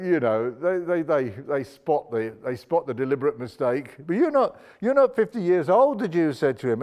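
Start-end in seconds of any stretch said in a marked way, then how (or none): 4.1-6.0 incredulous objection. Acted. Voicing the Jews' objection.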